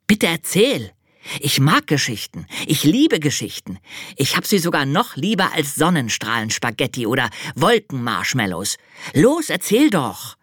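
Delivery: high, excited little angel begging; eager pleading. Acted. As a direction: beg for the story, bubbling over.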